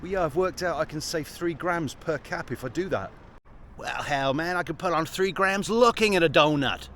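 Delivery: mock American, softly spoken; bad American accent. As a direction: carry on the dodgy American impression. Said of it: "I have to carry on now".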